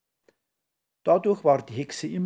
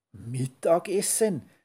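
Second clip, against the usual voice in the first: astonished witch; 3 semitones higher than usual. Acted. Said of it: "der Hexe kugelten fast die Augen".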